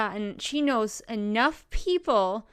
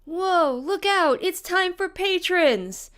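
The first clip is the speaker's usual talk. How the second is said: hyped announcer; 6 semitones higher, 3 dB louder than usual. Acted. Hype intro of patron shoutout.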